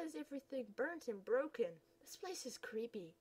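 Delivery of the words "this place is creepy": hushed, voiceless and frightened; scared whisper. Acted. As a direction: whisper it like you fear being heard. Scared whisper in new school.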